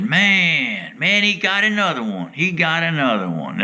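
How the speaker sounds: high, excited disbelief; a hammed-up amazed shout; excited exclaim. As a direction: cry out in amazement as he lands another. Mark exclaiming at catches.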